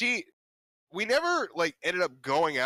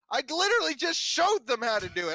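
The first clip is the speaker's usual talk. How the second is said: high, whiny protest, pitched way up; whiny retelling of himself; 12 semitones higher than usual. Retold or imitated. Student griping at the teacher, high whiny voice. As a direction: complain like a put-upon kid. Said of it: "And I'm like".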